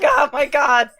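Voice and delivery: screaming. Retold or imitated. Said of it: "screaming in the background".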